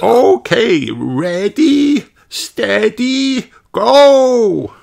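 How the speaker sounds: high, loud starting call. Acted. Madame Gazelle starting the walk, calling loudly. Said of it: "calls Madame Gazelle".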